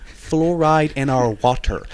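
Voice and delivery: slow, drawn-out posh fluoride; posh accent. Shown as a demonstration. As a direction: say it like a posh person. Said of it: "I say that like a posh person".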